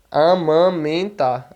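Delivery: "Amamentar" slowly, vowels nasal before M and N; slow Portuguese "Amamentar", syllable by syllable; nasalised vowels. Shown as a demonstration. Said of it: "Ele fica nasalado em português".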